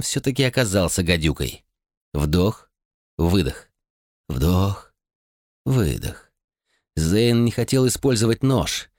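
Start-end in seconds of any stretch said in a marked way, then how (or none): 2.1-6.3 lower, calm counted breaths; steady breathing count. A narrator's reading. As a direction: pace the breaths to stay conscious. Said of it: "сосредоточился на дыхании".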